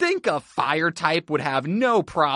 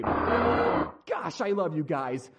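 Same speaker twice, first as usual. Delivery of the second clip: softer, fond words to the team; tender affection; 3 semitones higher, 6 dB quieter than usual. Acted. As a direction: get gentle and sentimental with your team.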